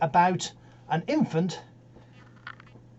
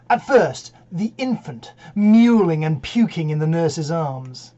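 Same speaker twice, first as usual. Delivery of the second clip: measured, stagey Shakespeare delivery; dramatic verse recitation. Acted. Actor opens Seven Ages of Man to an audience, declaimed. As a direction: declaim it, lingering on key phrases.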